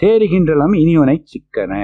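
quick chanted Tamil verse line; verse recital. Acted. Teacher quoting the saint's verse to his class, chanting. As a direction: rattle off the hymn line in singsong.

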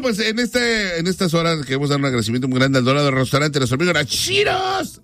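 upbeat radio host reading the sponsor list. Acted. Radio host thanking local sponsors on air, upbeat ad read. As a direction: rattle off the sponsors like a DJ.

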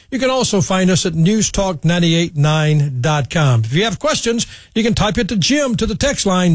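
punchy broadcast sign-off with lifted pitch; radio show sign-off. Acted. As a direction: read the credits and contacts like a radio presenter. Host reads show sign-off.

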